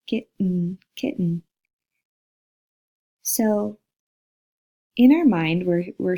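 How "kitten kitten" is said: "kitten" with the T caught in the throat; glottal stop. Shown as a demonstration. Teacher demonstrating the glottal sound, "kitten" with glottal stop. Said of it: "becomes the glottal sound".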